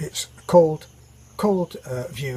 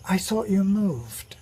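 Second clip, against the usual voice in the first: slow, higher, lightly posh British delivery; drawn-out British punchline, politely puzzled; genteel British husband; 5 semitones higher, slower than usual. Acted. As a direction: play a well-bred British lover, mildly baffled. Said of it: "a good British name".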